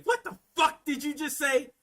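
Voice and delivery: high incredulous question; stunned disbelief. Acted. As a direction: act out appalled astonishment. Repeats the stunned reaction.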